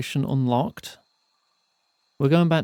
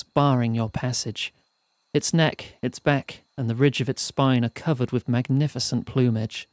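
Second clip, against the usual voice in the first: measured, evenly paced storyteller; story narration. A narrator's reading. Narrator telling players of a perilous mountain climb, storytelling. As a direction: read it out like an audiobook narrator. Reads the game's narration aloud.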